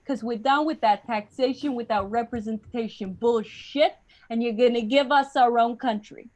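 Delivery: pushy New Yorker laying down terms; punchy New York accent. Acted. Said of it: "that's how you got the New York accent".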